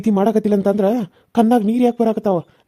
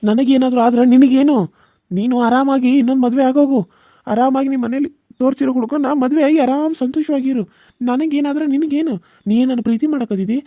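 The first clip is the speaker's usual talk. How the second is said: bitter anger; 3 semitones higher than usual. Acted. Rejected lover bitterly telling Suma to go marry another. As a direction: throw her rejection back at her.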